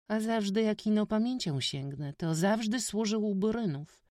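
put-on high, loud boyish chatter; eager village boy. A narrator's reading. Witek excitedly tells the stranger village gossip, high boy voice. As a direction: tell it all in a rush.

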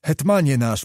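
lightly voiced old man pleading; a touch of an old soldier's begging; gentle mock plea to the prince. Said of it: "błagał stary Stankiewicz".

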